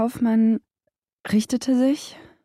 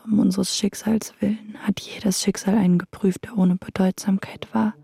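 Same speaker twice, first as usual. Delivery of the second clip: whispered poem. Acted. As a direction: whisper the verse like a prayer. Whispers translation.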